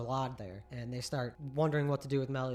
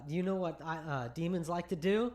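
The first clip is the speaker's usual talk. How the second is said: gleeful villain; 4 semitones higher, 6 dB louder than usual. Retold or imitated. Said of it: "The knight that he's fighting goes".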